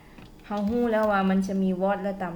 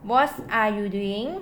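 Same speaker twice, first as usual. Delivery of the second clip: very slow and a bit louder, every word clear; slow model sentence; 5 dB louder, much slower than usual. Shown as a demonstration. Teacher to students giving an example, very slow. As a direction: read it out slowly for learners to copy. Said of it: "ตัวอย่าง".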